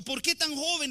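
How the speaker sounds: mimicked lament. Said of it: "Y este muchacho".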